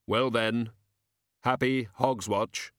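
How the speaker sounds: slow, grave happy Hogswatch; a hint of Death; Death's farewell. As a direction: Death speaking slowly and solemnly.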